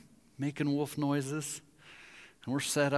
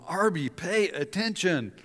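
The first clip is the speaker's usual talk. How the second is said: slow, raised, lightly voiced reprimand; mock scolding God; 4 semitones higher, slower than usual. God clubbing a slow believer to attention, mock scolding. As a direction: hammer each word as a mock rebuke. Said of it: "God's hitting you with a club".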